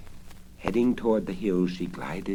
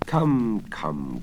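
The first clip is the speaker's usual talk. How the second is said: soothing coax; 4 dB louder than usual. Acted. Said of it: "coaxed the old man soothingly".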